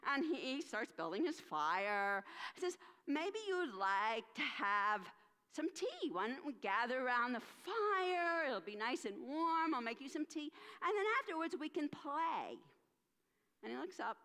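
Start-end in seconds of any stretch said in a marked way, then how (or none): 3.1-12.6 friendly host. Acted. Invites demons to tea by fire.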